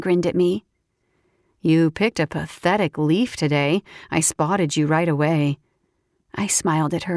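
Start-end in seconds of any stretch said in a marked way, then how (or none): 1.6-5.6 lower, teasing woman's voice; teasing friend voice. Acted. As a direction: tease him playfully.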